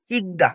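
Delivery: ইকদা as two joined syllables, ik-da; pronunciation demo. Shown as a demonstration. Teacher answering how it is pronounced, demonstrating ইকদা as ik-da. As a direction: say ইকদা with a short closed ik, then da. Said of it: "তাহলে কি উচ্চারণ হবে?".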